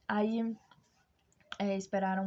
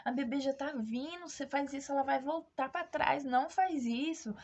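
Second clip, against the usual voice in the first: stern nurse; 5 semitones higher than usual. Retold or imitated. Cross nurse to woman in labour closing her legs, urgent scolding. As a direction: imitate a cross nurse ordering her to stop. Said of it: "essa enfermeira meio brava, falou assim".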